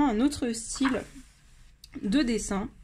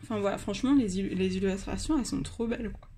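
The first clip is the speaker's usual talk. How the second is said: hiccuping while talking; suppressing hiccups; 2 semitones lower than usual. Real, not acted. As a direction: talk through the hiccups. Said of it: "Pardon, j'ai le hoquet".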